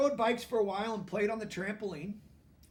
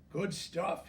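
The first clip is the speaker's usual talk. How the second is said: mouthful mumble. Acted. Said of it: "he mumbled through a mouthful".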